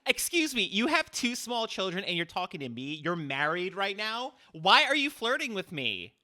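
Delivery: loud, high, offended; indignant outburst. Real, not acted. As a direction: shoot back in disbelief. Offended outburst at a flirting man.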